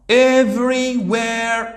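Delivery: Everywhere drawn out very slowly, loud and high; model pronunciation. Shown as a demonstration. Teacher drills the word for pupils, slow and loud. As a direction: stretch each syllable for the class. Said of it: "teacher models pronunciation".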